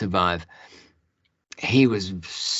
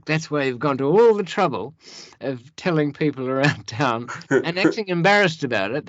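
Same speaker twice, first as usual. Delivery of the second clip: louder, half-laughing accusation; mock outburst; 5 semitones higher, 5 dB louder than usual. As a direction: call him out in your head, hammed up. Inner rant at sly Rocky.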